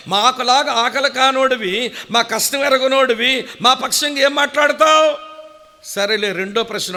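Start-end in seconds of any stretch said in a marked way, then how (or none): 0.1-5.2 rising, louder challenge building to the last question; scolding the angel, each line louder; indignant rebuke. Acted. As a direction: confront the angel, voice climbing. Preacher rebukes the angel Gabriel.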